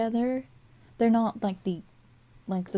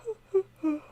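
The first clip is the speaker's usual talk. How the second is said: big open yawn; 11 semitones higher than usual. Real, not acted. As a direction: let out a tired yawn. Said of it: "it's when I start yawning".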